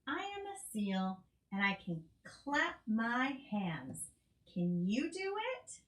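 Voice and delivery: lively picture-book read-aloud; storybook voice for a toddler; reading to a child. Acted. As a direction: read it brightly for a little one.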